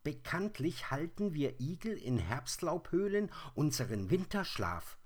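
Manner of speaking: hoher, lauter, grantiger Igel; übellauniger Igel. Acted. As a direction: schimpf wie ein aus dem Winterschlaf gerissener Igel. Igel spricht weiter. (der geweckte Igel schimpft hoch und laut)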